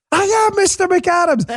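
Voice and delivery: high-pitched hammed-up yell; indignant cry, played as a catchphrase; mock outraged shout. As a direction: imitate an exasperated guest insisting on his name. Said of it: "it gets really pissed off".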